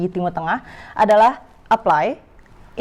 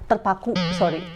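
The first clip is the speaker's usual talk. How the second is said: laughing; 3 dB quieter than usual. Real, not acted. Corrects slip with a laugh.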